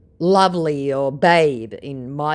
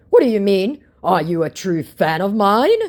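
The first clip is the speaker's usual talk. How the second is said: scammer voice; 6 semitones higher, 7 dB louder than usual. Retold or imitated. Reading scammer's message aloud.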